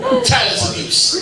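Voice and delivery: high-pitched complaining voice; high whiny legs voice. Acted. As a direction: whine it way up high. Legs talking as a character.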